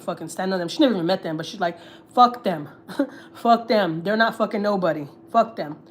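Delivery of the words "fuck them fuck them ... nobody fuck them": mildly indignant retelling of mom's dismissal; imitating angry mom. Telling daughter off about the in-laws, mock angry. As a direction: dismiss them as an angry mom would, lightly. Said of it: "my mom was so mad".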